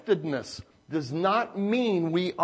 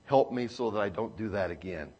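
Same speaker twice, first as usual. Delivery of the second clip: soft prayer; 9 semitones lower, 10 dB quieter than usual. Acted. Quiet prayer said softly.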